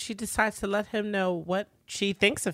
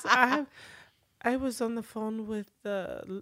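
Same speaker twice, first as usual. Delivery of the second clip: halting fib; 4 semitones higher, 6 dB quieter, slower than usual. Acted. Acts out Villanelle's halting lie.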